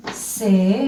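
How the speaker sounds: "Cepillo" spaced as ce... pi... llo; syllable by syllable. Shown as a demonstration. Teacher writes the word down, syllable by syllable. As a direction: dictate "Cepillo" piece by piece. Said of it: "voy a escribirlo acá".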